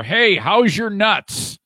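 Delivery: slow, drawn-out teasing question; teasing quote. Retold or imitated. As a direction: read out the fan's jab slowly. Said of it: "from the tarantula farmer".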